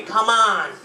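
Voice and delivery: imitating a pleading kid; mock desperate plea; begging. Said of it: "he starts begging me".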